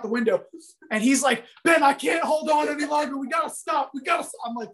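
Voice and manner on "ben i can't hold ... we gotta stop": high, strained cry for help; panicked yell. Retold or imitated. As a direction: yell it like your arms are giving out. Friend yelling from car window.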